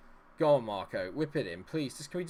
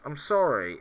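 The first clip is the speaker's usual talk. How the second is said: ordinary delivery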